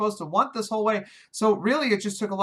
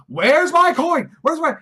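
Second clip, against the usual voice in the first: higher, louder, slow, demanding; frantic demand; 8 semitones higher, 8 dB louder, slower than usual. Retold or imitated. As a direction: indignantly demand the lost coin. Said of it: "It's almost like he says".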